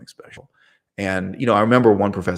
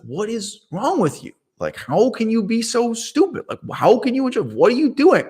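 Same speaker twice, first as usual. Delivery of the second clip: put-on baffled little kid; 13 semitones higher than usual. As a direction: voice yourself as a shocked small kid. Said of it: "it's like".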